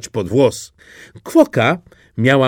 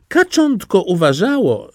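plain reading voice

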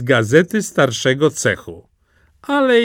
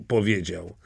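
ordinary delivery, nothing marked

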